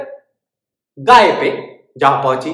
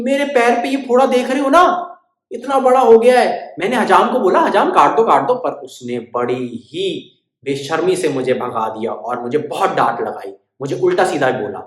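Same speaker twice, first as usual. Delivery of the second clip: complaining bird; 4 dB louder than usual. Acted. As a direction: whine the complaint.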